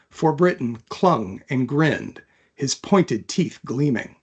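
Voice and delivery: even, measured read-aloud of a novel; story narration. A narrator's reading. Author reading her fantasy chapter aloud, calm narration. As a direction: tell the story steadily to listeners.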